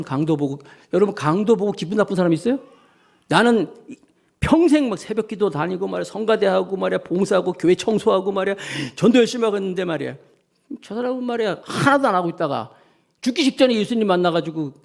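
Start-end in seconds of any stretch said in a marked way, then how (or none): 3.3-14.7 mock grumble of a longtime church worker; lightly acted resentful listing of one's efforts; complaining. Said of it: "이렇게 불평합니까?". (가볍게 흉내 낸 불평)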